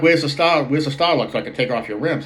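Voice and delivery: a mechanic demanding the wheel lock key; irritated demand. Retold or imitated. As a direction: bark the question at him. Arguing with customer over lug key.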